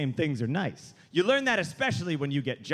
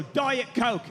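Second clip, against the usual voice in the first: curt command; 5 semitones higher than usual. Retold or imitated. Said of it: "A singer would go like this".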